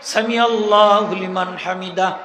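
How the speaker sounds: slow, stretched সামি আল্লাহু while rising; correct drawn-out recitation. Shown as a demonstration. Preacher shows the imam the correct timing, slow. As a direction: spread it across the whole rise. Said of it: "হামিদা হইয়া শেষ".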